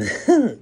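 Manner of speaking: short high laugh burst; burst of laughter. Real, not acted. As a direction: laugh out loud. Laughing at own food noises.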